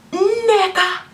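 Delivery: booming Nigerian teacher calling the register; Nigerian accent. Retold or imitated. Supply teacher calling the register in a heavy Nigerian accent. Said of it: "this man had a very deep accent".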